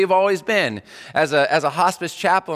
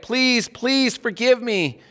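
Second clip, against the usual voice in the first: high, slow pleading; mock begging; 9 semitones higher, much slower than usual. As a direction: stretch it out like a begging child. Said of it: "Or maybe we beg".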